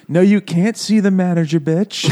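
1 mock snotty Karen. Karen boss quote.

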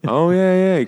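high, loud burst of feigned enthusiasm; mock excitement. Joking about the story's grab, mock-excited. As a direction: play it up, pitched way high. Acting out the grabbing scene.

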